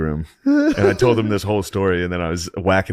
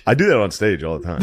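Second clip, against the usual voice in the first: ordinary talk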